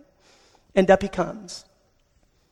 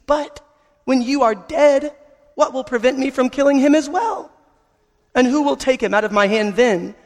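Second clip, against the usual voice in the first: quivering witch voice; 2 semitones higher than usual. Acted. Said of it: "said in a quivering voice".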